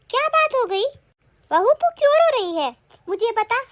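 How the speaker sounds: high-pitched, anxious concern; worried questioning. Acted. Mother-in-law asking her crying daughter-in-law what happened, worried. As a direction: ask in rising alarm what is wrong.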